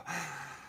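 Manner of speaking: long falling sigh; imitated sigh. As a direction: sigh it out, deflated. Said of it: "and then she'll go".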